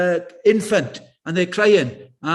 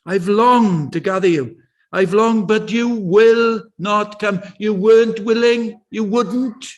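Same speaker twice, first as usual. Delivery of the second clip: pleading lament, drawn out and slow on longed; passionate Jesus; slower than usual. Retold or imitated. Jesus grieving over Jerusalem, pleading with passion. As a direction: ache through every word of longing. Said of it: "you can feel the passion then".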